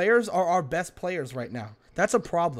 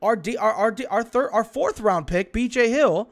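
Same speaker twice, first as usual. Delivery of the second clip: worked up; 5 semitones higher than usual. Real, not acted. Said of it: "you get so mad".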